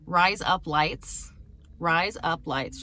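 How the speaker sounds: slow lead-in to an Australian accent. Shown as a demonstration. Teaching viewers the starter phrase, slow Australian accent. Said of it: "get into the Australian accent, you have to say".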